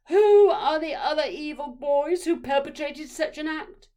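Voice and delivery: high, loud, outraged mother; mother interrogating a classroom at full volume; angry demand. A narrator's reading. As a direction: shout the question as a furious accusation.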